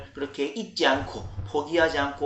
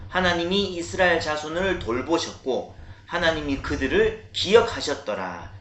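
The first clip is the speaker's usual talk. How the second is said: big, resounding recitation; loud scripture reading; 3 semitones higher, 4 dB louder than usual. Real, not acted. Pastor leading children in reading verses aloud, big loud voice. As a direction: read it out loud and firm, leading the group. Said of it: "큰 목소리로, 우렁찬 목소리로".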